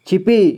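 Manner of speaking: छिपी with the final ee held long; long final vowel. Shown as a demonstration. Teacher reading out for learners, छिपी with long final ee. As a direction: draw out the last vowel of छिपी. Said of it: "ज़्यादा समय में उच्चारण करेंगे".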